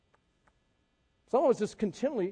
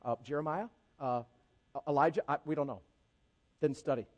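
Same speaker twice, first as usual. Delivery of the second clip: bumbling disciples; 4 semitones lower than usual. Retold or imitated. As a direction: imitate students stumbling for an answer. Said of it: "again, they're bumbling".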